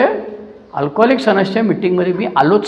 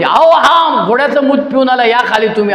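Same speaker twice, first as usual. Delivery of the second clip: imitating mother calling out, higher pitched; mock yell of an exasperated mother; mother's yell; 4 semitones higher than usual. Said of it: "आई मोठ्याने ओरडायची".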